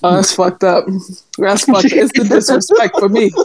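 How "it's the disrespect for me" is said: said through a laugh; amused offence. Real, not acted. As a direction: laugh while feigning offence. Laughing at teasing, first take.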